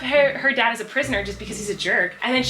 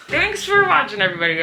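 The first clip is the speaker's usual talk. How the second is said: laughing sign-off. Real, not acted. Vlogger thanking viewers, laughing. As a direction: laugh your way into the goodbye.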